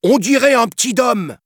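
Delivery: high, loud monkey voice; third monkey. Acted. Third monkey guessing about the child, high loud voice. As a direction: pipe up loudly like a chattering ape. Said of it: "avança un troisième".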